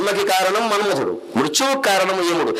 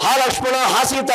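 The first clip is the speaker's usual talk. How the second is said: retold distant cry; 5 semitones higher than usual. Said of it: "ఆవిడ లక్ష్మణుడిని పిలిచి".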